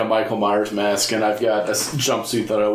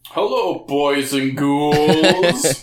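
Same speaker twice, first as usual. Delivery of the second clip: spooky host voice; 4 semitones higher, much slower than usual. Pretend.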